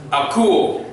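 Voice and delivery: teacher slowly models akuo for repetition; model Greek word. Shown as a demonstration. Teacher models Greek akuo for student to repeat. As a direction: say akuo clearly, rising at the end. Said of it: "repíteme por favor".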